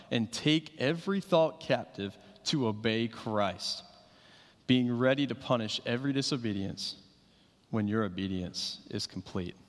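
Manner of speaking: measured, solemn reading of the passage; scripture reading. Acted. Scripture reading opens sermon.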